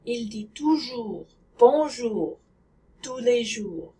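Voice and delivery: "toujours", "bonjour", "jours" with rounded French oo sounds. Shown as a demonstration. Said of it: "Try saying this sentence".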